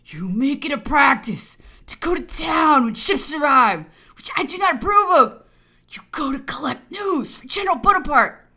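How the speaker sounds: loud, high-pitched scolding; angry accusation. Acted. Governor accusing the officer of collecting news, angry. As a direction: accuse him at full voice.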